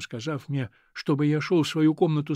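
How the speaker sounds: ordinary delivery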